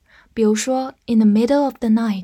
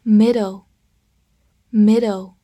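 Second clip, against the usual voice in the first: drawn-out, a bit louder; slow review reading; 5 dB louder, much slower than usual. Shown as a demonstration. Teacher reviewing the day's words with the class. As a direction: say it slowly and clearly. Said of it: "复习一下今天学过的单词".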